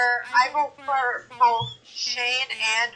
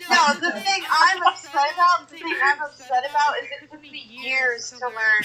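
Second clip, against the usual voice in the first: upset character; 5 semitones higher than usual. Acted. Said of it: "that's just her character".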